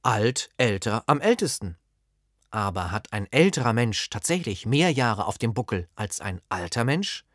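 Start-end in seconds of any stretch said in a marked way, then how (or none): 0.0-1.8 like reading off a grammar table; reciting the forms. Shown as a demonstration. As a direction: lay out alt, älter, am ältesten one by one. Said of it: "werden Sie sagen".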